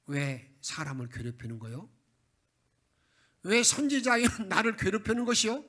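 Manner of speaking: an exasperated prophet protesting being pestered; indignant prophet. Retold or imitated. Isaiah rebukes King Ahaz, indignant and rising to loud.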